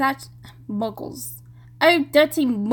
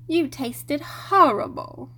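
Hermione impression; 3 semitones higher, slower than usual. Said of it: "channel my inner Hermione".

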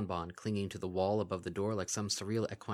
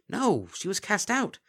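horrified denial; 12 semitones higher, 5 dB louder, slower than usual. Acted.

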